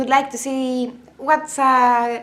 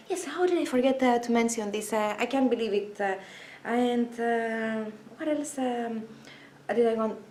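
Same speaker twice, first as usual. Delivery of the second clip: softer self-talk, half to herself; quiet aside; 6 dB quieter than usual. Real, not acted. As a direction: drop the voice as you think aloud.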